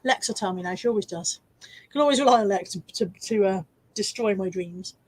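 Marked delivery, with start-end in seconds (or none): 1.6-5.0 talking with hiccups; hiccuping between words. Real, not acted. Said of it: "Sorry, I've got hiccups".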